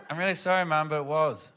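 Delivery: unruffled reply, back down from the screaming; cool, calm, collected. Retold or imitated. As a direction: imitate a daughter calmly standing her ground. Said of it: "so cool, calm and collected".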